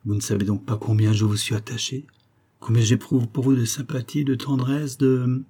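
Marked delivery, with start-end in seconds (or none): 2.6-5.4 sentence left hanging on "de..."; breaking off. A narrator's reading. Colonel confessing tenderness to his cousin, breaking off at "de". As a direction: stop short after "de", as if checking yourself. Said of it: "Il s'arrêta".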